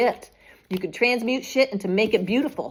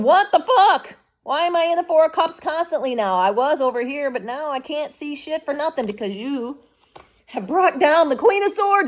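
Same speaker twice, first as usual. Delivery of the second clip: higher, louder outraged whine; mocking the enemies; 6 semitones higher, 4 dB louder than usual. Mimicking rivals baffled by the empress, high and outraged. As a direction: play the baffled, indignant rivals.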